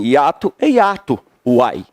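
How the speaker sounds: a hint of a Minas Gerais accent; Mineiro accent. Teacher joking how Mineiros say hiato, light Mineiro accent. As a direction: lightly put on Mineiro speech, ending on "uai". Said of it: "Se você é mineiro, você diz assim".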